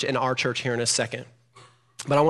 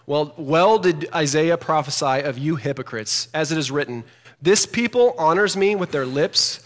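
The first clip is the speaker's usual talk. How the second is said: 1 scripture reading; 4 dB louder, slower than usual. Shown as a demonstration. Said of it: "That's really important".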